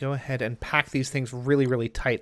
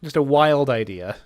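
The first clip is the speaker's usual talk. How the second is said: Pegasus. Acted. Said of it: "Channeling Pegasus from, uh, Yu-Gi-Oh!".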